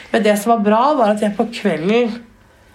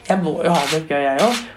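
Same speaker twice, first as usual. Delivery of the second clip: mild Jonas impression; 4 semitones lower, faster than usual. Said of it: "så sa han".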